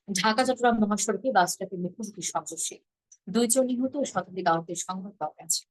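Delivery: even, falling, restrained news read; Bangladeshi news style. Shown as a demonstration. Teacher demoing the plain Bangladeshi way of reading a headline. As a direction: read it straight and sober, no swoops. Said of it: "আমরা করি কিভাবে?".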